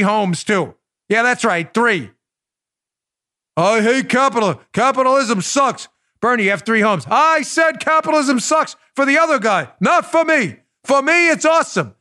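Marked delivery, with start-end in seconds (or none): 3.6-5.9 Bernie impression. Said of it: "We haven't done that voice". 7.1-11.9 mock Bernie gloating that capitalism works for him; Bernie Sanders voice. Host mocking Bernie's three homes, lightly imitating Bernie. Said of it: "We haven't done that voice in a long time".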